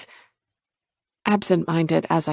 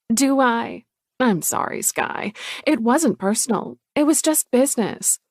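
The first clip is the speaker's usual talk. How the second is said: higher, falsely sorry sister; pitched-up cool sister voice; cold Chloe; 5 semitones higher than usual. Acted. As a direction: brush her off politely.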